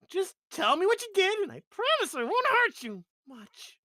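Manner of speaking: high-pitched exasperated character voice; character audition take. Acted. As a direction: protest in a high, put-on voice. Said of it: "I love your take, 'cause all I was gonna be like".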